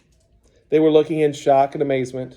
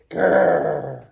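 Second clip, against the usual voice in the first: growl. A narrator's reading. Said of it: "Pinky growled at the sock puppet".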